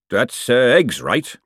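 hesitant, mildly nervous question; a touch of panicky uncertainty. Acted. Chef asked to cook an omelette, mildly nervous. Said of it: "he said nervously".

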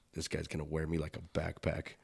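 low, soft, monotone murmur; retold whisper. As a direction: imitate a voiced whisper into a friend's ear. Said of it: "whispers in my ear again".

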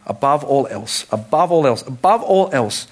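"above all else" repeated, climbing and slowing; building emphasis. Acted. Preacher building the repeated phrase for the congregation.

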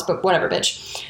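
whispered, dismissive jab; a scornful whisper trailing off; whispered aside. Real, not acted. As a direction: drop it to a whisper and brush her off. Dismissive aside about Marie.

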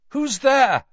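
loud, high call. Acted. He calls into the darkness, calling out. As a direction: call sharply to someone out of sight. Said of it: "he called again".

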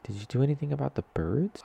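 put-on high small child asking; little girl voice. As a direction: play a worried little kid.

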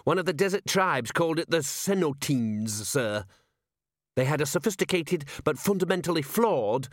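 high-pitched, earnest lecturing constable; Constable Visit. Acted. Constable explaining an old script to his commander, high and earnest. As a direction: lecture your superior, high and keen. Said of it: "said Constable Visit".

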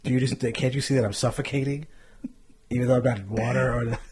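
mock panic. Acting out panic attack.

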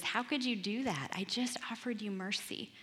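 an understated indignant reproach; mild acted scolding. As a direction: take someone to task, without raising the volume. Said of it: "the master scolds him and says".

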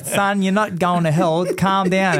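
a lightly voiced man telling a kid to relax; calming shopkeeper. Shopkeeper reassures the guilty boy, lightly voiced calming man.

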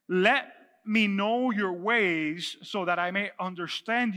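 measured, emphatic scripture reading. Acted. Pastor reads Moses' plea to the congregation, measured scripture reading. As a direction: read it out in deliberate phrases with pauses.

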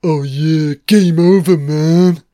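Hudson impression. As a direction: bark game over like a panicking marine. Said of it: "it's Hudson".

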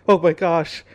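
loud panicked rush; panicking, sure you'll die; retold panic. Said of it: "And I'm like".

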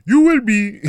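put-on high, loud Nigerian parent accent; hammed-up Nigerian accent. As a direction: bark it like a stern Nigerian parent. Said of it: "the accent would have been off".

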